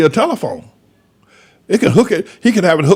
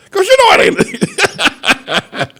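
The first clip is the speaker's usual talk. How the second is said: very slow and high, laughing through the words; much slower than usual. Retold or imitated. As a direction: let the line melt into laughter. Quote dissolves into laughter.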